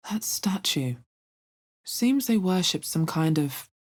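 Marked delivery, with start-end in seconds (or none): 0.1-1.0 whisper. Acted. Whispered remark.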